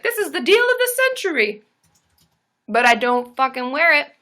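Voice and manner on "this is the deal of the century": high, excited gushing voice; mock-giddy delight at a cheap deal; thrilled bargain hunter. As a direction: squeal over a great find. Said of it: "and I was like".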